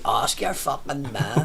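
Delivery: slow, stretched-out mock comeback; lazy drawl on every word; drawn-out retort. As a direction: imitate a drinker dragging out each word. Repeats the drinker's drawn-out retort.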